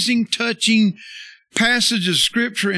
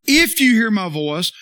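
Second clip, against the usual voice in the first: "If" punched at the start; stress on If; 3 semitones higher, 4 dB louder than usual. Shown as a demonstration. Preacher repeating what the verse didn't say, stress on "If". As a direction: press hard on "If" as the wrong word. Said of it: "It didn't say".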